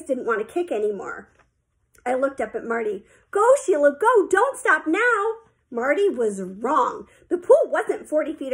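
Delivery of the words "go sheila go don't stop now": high, loud cheer, drawn out at the end; urging yell. A narrator's reading. Coach cheering on tired Sheila, urgent yell. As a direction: push a tiring swimmer onward. Coach yells to tiring swimmer.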